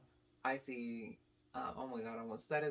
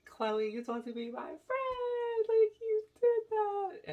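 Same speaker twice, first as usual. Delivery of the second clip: very high screeched reproach, building louder; imitated scream; 8 dB louder, slower than usual. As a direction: re-enact a wailing scream at a friend. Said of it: "I basically scream".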